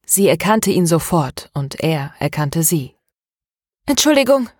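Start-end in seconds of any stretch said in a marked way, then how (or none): 3.9-4.5 a hurried, raised "Entschuldigung"; quick apology. Acted. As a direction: blurt the sorry out fast and move on. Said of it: "sagte sie schnell".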